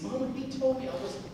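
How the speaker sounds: light imitation of a crying boy; retold crying. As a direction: voice a touch of tearful protest. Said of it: "he started to cry".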